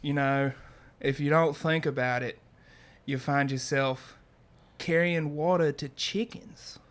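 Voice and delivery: light Australian accent impression; quoting in a mild Aussie accent. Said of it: "I'll do my best Australian accent".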